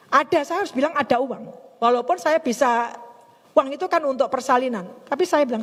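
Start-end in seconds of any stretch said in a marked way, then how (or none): none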